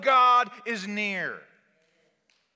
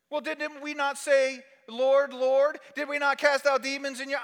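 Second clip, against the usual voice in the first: protesting plea; 5 semitones higher than usual. Acted. Acts out protest at judgment.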